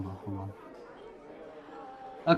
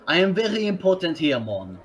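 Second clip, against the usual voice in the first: French Jamaican accent; faster than usual. Shown as a demonstration. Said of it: "French Jamaican accent".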